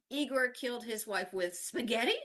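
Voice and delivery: SPAGHETTI picked out with a final rise; stress on spaghetti. Shown as a demonstration. Teacher showing how stress changes meaning, spaghetti stressed. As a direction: question the weapon, stressing "spaghetti". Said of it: "changing the stress in each".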